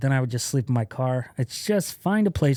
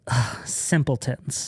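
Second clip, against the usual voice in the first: disdainful sigh; much slower than usual. Retold or imitated. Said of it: "he looks at me and he goes".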